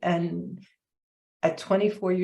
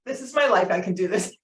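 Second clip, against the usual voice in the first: triumphant self pep talk; faster than usual. Retold or imitated. Retells her own pep talk.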